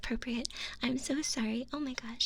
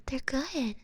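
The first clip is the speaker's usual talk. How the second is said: ordinary talk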